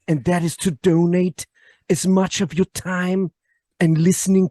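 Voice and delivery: lightly voiced Herzog, solemn and measured; Werner Herzog impression. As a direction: Herzog voice preaching about owning nothing. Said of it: "I'll do it like Werner Herzog".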